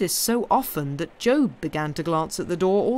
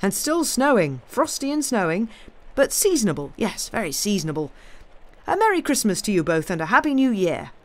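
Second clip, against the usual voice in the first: lightly voiced benevolent old gentleman; genial, lilting musing with lively emphasis; kindly gentleman, musing; 4 semitones higher, 4 dB louder than usual. Older man wishes his companions Merry Christmas, kindly and musing. Voices Mister Jarvie chatting by fire.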